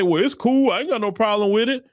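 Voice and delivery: mildly mocking an easygoing pushover; mock casual approval. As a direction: lightly mimic someone shrugging it off. Mocking a black person who allows it.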